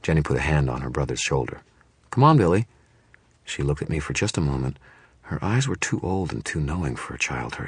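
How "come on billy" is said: put-on high, loud young girl; a girl hurrying her brother. A narrator's reading. Girl pulls brother away.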